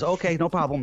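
manager caving in, hands up; hint of a flustered manager folding; mock quick backing down. Manager caving after disability claim.

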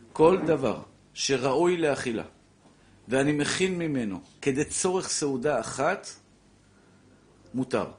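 a teacher repeating it slowly; slow restating. Shown as a demonstration. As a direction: spell the rule out slowly so it sinks in. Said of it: "אני חוזר".

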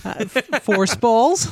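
giggling through the words; laughing. Real, not acted. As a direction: laugh while saying it. Joking about own magic.

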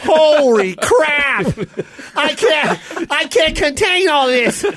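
strained, slow bottle holding back a crowd, calling out to Don; a hammed-up talking whiskey bottle, straining at the door; Jameson bottle voice. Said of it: "My Jameson speaks".

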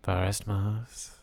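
slow, soft, drawn-out name; mock-dramatic name reveal. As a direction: savour each syllable softly. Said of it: "Never said your name like I say that".

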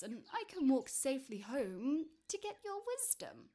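high, hesitant, wheedling request; timid little man. Acted. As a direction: ask the giant nervously, with a small stammer.

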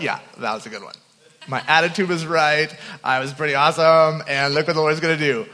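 smug boast. Retold or imitated. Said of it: "'cause of your attitude and your heart".

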